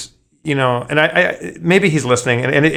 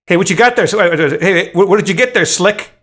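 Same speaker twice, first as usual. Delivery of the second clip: nosy bar guy; 5 semitones higher than usual. Retold or imitated. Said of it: "the guy says".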